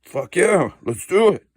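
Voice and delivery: imitating the brother's keen yes; excited brother. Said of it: "And he's like".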